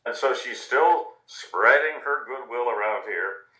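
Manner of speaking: gentle, lively storybook reading; reading to children. A narrator's reading. News anchor reads a picture book to children at home, gently. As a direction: tell it like a bedtime story to small kids.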